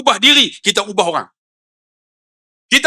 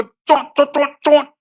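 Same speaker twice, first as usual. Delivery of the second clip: quick, higher mock cheek kisses; imitated kissing noises; 5 semitones higher, slower than usual. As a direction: mimic a string of smacking kisses. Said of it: "saya cium pipi dia". (bunyi ciuman olok-olok)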